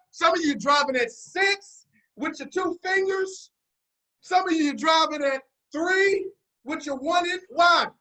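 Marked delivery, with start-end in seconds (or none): 0.1-7.0 teasing call-out. Acted. Teasing the audience, preaching loud.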